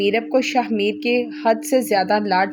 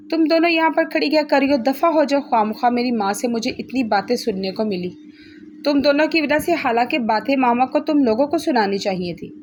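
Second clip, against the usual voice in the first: angry at the maids; 3 semitones higher than usual. Acted. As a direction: snap at the maids to get out. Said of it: "अपना गुस्सा नौकरानियों पर निकालते हुए बोली".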